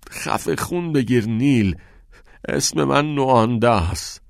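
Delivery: defiant retort. A narrator's reading. Pupil silencing his prying friend, defiant and irritated.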